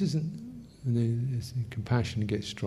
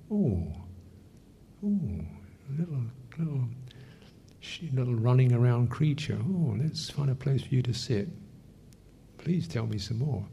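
tender compassion. Shown as a demonstration. Teacher voicing compassion to a small crushed creature, tender. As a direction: coo gently as to a frightened little thing. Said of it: "And then you get karuna".

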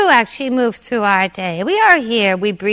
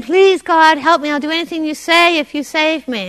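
pleading plea; 5 semitones higher, 6 dB louder than usual. Retold or imitated. Desperate person begging God.

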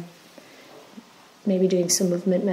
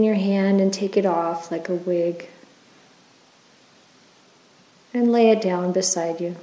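unhurried, even-toned meditation leader; guided meditation. Acted. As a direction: guide listeners gently through the body, leaving space after each phrase.

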